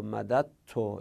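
مدد تو with the first dal said as t, madatt-o; مدد تو pronounced as madatto, dal turned into t; assimilated demo. Shown as a demonstration. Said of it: "یعنی دال اول رو ت تلفظ کنیم".

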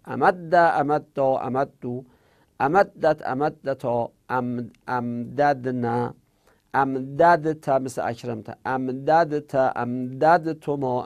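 drilling conjugations aloud for the students; paradigm recitation. Shown as a demonstration. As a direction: chant each verb form slowly, one at a time.

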